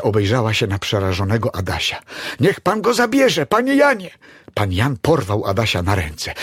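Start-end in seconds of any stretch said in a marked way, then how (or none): 2.4-4.1 high, loud, pleading call; urgent plea. A narrator's reading. Grandma cries to the neighbour to save the boy, urgently. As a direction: beg him to get the child out.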